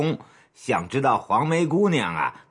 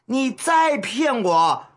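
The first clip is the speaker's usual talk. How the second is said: teeth-gritted threat; 9 semitones higher, slower than usual. Acted. Boss warning his underling about lying, teeth-gritted threat. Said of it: "涂树东咬牙切齿地说着".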